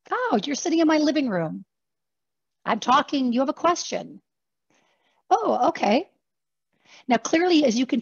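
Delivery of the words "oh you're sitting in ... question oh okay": conversational ease. Shown as a demonstration. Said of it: "like a conversation".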